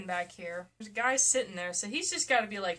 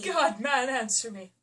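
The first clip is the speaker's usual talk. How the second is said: mock echo; 2 semitones higher, 5 dB louder, slower than usual. Echoing the dramatic line.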